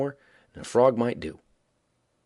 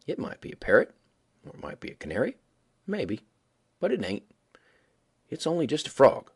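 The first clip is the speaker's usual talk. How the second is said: indifferent; 3 semitones higher than usual. Acted. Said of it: "sort of indifferent like".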